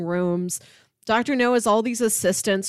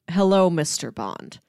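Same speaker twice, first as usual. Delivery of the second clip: understated cold welcome, lightly voiced; chilling villain host; 5 semitones lower than usual. Villain greets Bond on his island, mild flat menace. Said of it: "he's a chilling fellow".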